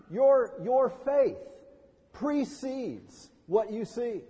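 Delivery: slow, deliberate stress on "your faith"; emphatic slow point. Real, not acted. Preacher drives the point home to congregation, slow emphasis.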